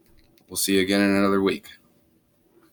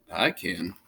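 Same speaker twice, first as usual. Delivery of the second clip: cool confidence; 5 semitones lower, 7 dB quieter than usual. Acted. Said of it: "said Fish".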